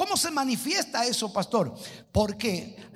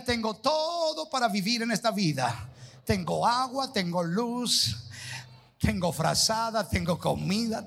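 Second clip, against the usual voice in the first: congregation recitation; 3 semitones lower than usual. Shown as a demonstration. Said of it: "Levante las manos y diga".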